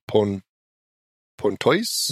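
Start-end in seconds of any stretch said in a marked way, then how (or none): 1.4-2.1 "Pontoise?" tried like "point-oyz", rising as a question; unsure pronunciation. Shown as a demonstration. Host is unsure of the town name, tries "point-oyz" with a rising question. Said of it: "or is it Point".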